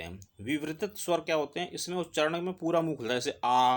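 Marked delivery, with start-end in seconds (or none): 3.2-3.8 आ sung out with the mouth fully open; wide-open vowel. Shown as a demonstration. Teacher shows students a wide open आ. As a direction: open wide on आ and hold it a beat. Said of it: "अब देखो बिल्कुल पूरा मुंह खुल गया".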